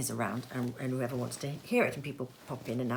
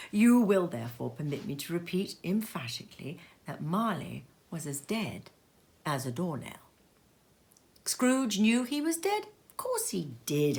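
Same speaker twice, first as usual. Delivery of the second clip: measured, expressive storytelling read; unhurried Dickens reading with dramatic pauses; story narration. A narrator's reading. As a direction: read it like a fireside tale for the family. Reads Dickens aloud as narrator.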